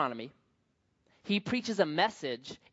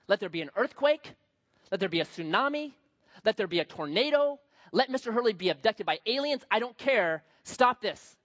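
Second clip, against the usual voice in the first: desperate plea; 3 semitones higher than usual. Retold or imitated. Acts out desperate prayer before class.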